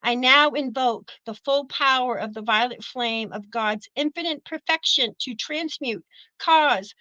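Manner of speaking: a measured devotional decree; spoken decree. Acted. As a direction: intone it like a prayer. Reads violet flame decree.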